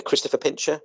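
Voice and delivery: ordinary talk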